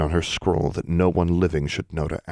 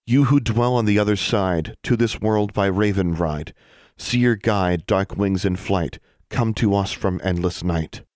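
lightly chanted spirit summons; ritual incantation; 3 semitones higher than usual. A narrator's reading. Alexandra calls forth spirits with verse, intoned incantation. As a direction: intone the rhyme, calling out to the dead. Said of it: "She began a ritual to call forth spirits".

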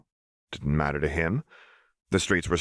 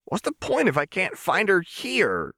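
much higher, voice straining toward tears; close to tears. Acted. Jinx telling Jericho she sees her every dream, near tears. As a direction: plead as tears well up. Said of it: "Tears were threatening in her eyes".

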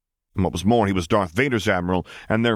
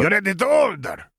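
high squeaky alien waitress; belligerent waitress; 13 semitones higher, 3 dB louder than usual. Acted. Tiny waitress demanding their order, high and squeaky. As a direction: buzz at them impatiently.

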